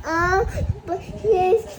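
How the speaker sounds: high, loud, sobbing words; crying promise. Real, not acted. Child promises Papa not to repeat it, crying. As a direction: wail it out in broken pieces.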